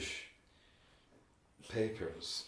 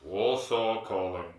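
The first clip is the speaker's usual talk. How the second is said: slow, booming call sign; radio announcer; 2 semitones lower, 5 dB louder, slower than usual. Pretend. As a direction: announce it like a wartime broadcast.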